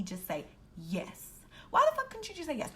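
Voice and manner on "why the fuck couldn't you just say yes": exasperated outburst. Real, not acted. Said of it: "exasperated outburst".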